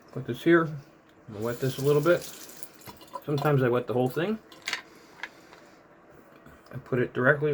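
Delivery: words slurred by toothpaste in mouth; mouth full of toothpaste. Real, not acted. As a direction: talk through a mouthful of toothpaste. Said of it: "The toothpaste is too hard to talk with".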